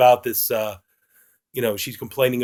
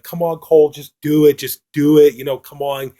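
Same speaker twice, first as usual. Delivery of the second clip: louder, impatient retold nagging; mildly angry urging, voice raised; getting angry; 5 dB louder than usual. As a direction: act out a woman losing patience, pushing each demand. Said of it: "starting to get angry with him".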